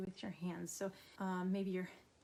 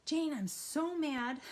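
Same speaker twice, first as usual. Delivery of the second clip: higher, louder, slow mock-angry blurt; a louder, higher, slower "I'm so mad"; angry outburst; 7 semitones higher, 5 dB louder, slower than usual. Shown as a demonstration. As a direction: blurt it out hot before calming down. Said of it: "you're gonna say it a little calmly".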